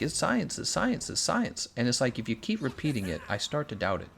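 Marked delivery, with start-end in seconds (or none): 0.0-1.7 higher, sing-song mocking chant; mocking repetition. Streamer mocking how experts repeat the word science. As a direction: parrot it back mockingly. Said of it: "they keep telling you".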